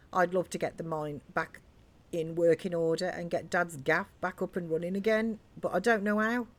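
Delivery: lightly voiced chatty British pub landlord's daughter; landlord's daughter, no-nonsense. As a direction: lightly act a feisty local girl filling a stranger in. Reads landlord's daughter's game dialogue.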